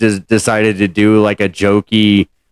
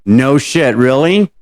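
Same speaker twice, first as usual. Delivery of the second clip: sarcastic; 4 semitones higher, much slower than usual. Real, not acted. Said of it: "I can't tell sarcasm with you".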